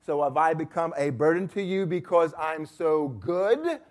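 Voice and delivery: mock-arrogant taunt, rising at the end; Job. Job openly challenging God, arrogant. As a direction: taunt smugly, ending on a pointed question. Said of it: "this is arrogance here".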